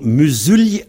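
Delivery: "musulien" with the i said as a y, mu-sul-yen; teacher demonstrating "musulien" with a y sound; y glide pronunciation. Shown as a demonstration. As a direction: say "musulien" in three syllables, i as y. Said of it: "il se prononce comme un y".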